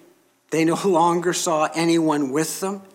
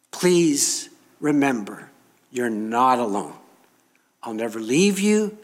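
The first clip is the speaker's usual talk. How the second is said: tender promise; 3 semitones lower than usual. Acted. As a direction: comfort them gently. Jesus's promise to believers.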